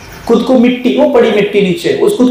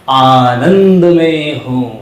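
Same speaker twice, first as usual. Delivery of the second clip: flat slow repeat; 7 semitones lower, much slower than usual. Shown as a demonstration. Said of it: "अभी आपने पता कैसे बोला?".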